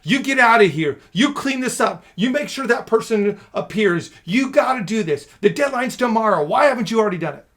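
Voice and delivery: loud, high, barking orders; drill-sergeant demands, loud and high; aggressive demo. Shown as a demonstration. Boss shouting orders at an employee, aggressively loud. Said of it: "You do it in an aggressive fighter type stance".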